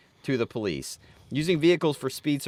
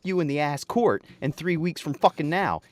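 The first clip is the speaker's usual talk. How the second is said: raised, hammed-up tirade at a subcontractor; mock yelling; 4 semitones higher than usual. Angry client blasting Dave about the stalled project. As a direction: chew him out over the phone, half-joking. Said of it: "start yelling at me like".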